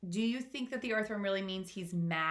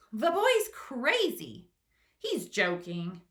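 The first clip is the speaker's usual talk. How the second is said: high, slow, mocking scoff; scoffing creature voice; 5 semitones higher, 6 dB louder, slower than usual. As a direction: sneer at the silly boy.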